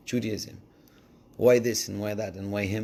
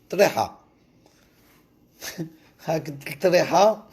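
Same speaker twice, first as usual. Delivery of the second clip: loud exclaim; 5 semitones higher, 5 dB louder, faster than usual. Acted. Loud repeated punchline word.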